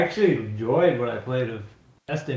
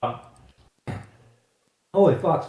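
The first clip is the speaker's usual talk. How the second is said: choking on granola bar; 5 dB louder than usual. Real, not acted. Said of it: "I'm choking on my granola bar here".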